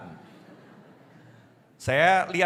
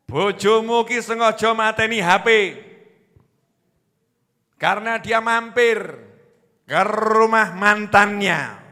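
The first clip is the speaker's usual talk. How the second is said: angry wife; 3 semitones higher, 4 dB louder than usual. Retold or imitated. Wife voiced by devil's whisper.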